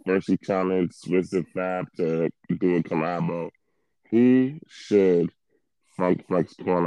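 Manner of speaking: robotic, metallic mic sound. Real, not acted. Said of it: "I do not know why you sound so robotic".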